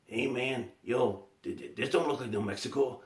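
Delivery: high, laid-back stoner voice doing Cheech; Cheech impression. Retelling a puppet that talks like Cheech, high stoner voice. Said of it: "he's sounded pretty close to the voice of Cheech".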